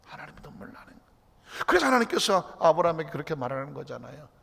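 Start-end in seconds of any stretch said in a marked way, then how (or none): 0.1-1.7 whispered. Acted. God moved to tears, hushed.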